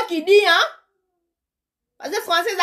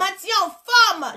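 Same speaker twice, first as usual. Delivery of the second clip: mock encouraging shout; 3 semitones higher, slower than usual. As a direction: cheer it out slowly like the uncle. Uncle cheering her on.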